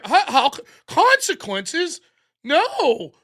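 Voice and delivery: a hint of whiny disbelief; mock outraged woman. Streamer lightly mocking the arrested woman, mock indignant.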